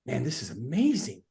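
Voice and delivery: low, subdued understatement; outwardly unreacting. Shown as a demonstration. Audience member enjoying it without showing it, low and subdued. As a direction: say it softly, keeping all the enthusiasm inside. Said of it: "but you might be like this".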